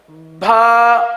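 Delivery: "بھا" with a breathy h after b; wrong pronunciation. Shown as a demonstration. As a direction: show the mistaken aspirated "بھا". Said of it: "با کے ساتھ ہا کی آواز".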